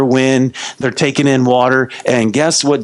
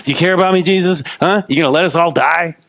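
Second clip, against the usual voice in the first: acted nervous rant, pitched up; mock freak-out; 4 semitones higher than usual. Freaked-out believer going off on Jesus, mock panic. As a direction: badger him with anxious little questions. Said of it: "so nervous and freaked out".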